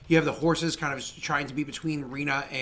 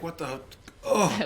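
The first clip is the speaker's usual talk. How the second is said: groggy mumble rising to a groan; acted groggy confusion, ending in "ugh"; dazed; slower than usual. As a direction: come to in a mild daze. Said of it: "a bit dazed at the moment".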